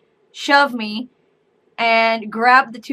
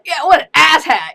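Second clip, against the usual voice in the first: sarcastic agreement; 5 semitones higher, 8 dB louder than usual. Pretend. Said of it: "I can't really be like".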